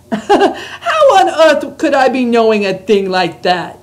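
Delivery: BFG giant voice. Acted. Reads the BFG's lines.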